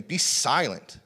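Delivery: firm, emphatic retold rebuke; sharp command. Jesus sharply silencing the storm, firm command. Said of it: "is Jesus sharply saying".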